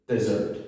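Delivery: desert said de-ZERT, end stressed; weak start, stressed end on desert; stress on second syllable. Shown as a demonstration. Teacher gives the third word, second-syllable stress on desert. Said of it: "comes at the second syllable of the word".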